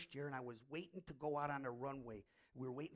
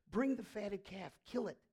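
higher, louder call to the servants; excited command; 4 semitones higher, 5 dB louder than usual. Acted. Father ordering servants to ready a feast, excited.

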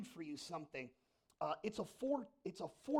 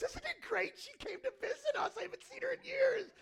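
very high, loud, gushing mother; excited mom; 8 dB louder than usual. Retold or imitated. Mother gushes about the visit, very high and loud. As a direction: gush like a delighted mom. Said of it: "my mom goes".

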